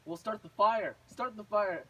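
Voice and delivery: loud, insistent order as the witch; bossy command. Retold or imitated. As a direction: order her about, loudly. Witch ordering Gretel about.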